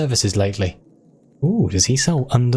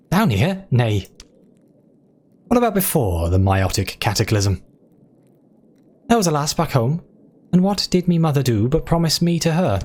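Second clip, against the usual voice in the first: hammed-up Scottish brogue, pitched up on the questions; a lovelorn rat-catcher in a cheesy Scottish accent; bad Scottish accent, lifting higher as the tale goes on; awful Scottish accent; 3 semitones higher than usual. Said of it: "my awful accents".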